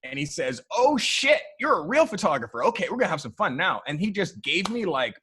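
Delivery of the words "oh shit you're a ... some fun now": high and loud, then quick; suddenly won over; impressed exclamation. Retold or imitated. Colin Firth seeing the shots, mock impressed.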